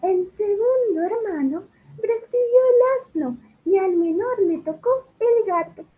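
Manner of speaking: high, airy fairy voice. Acted. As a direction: float it like a little fairy. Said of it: "Ahora como un hada".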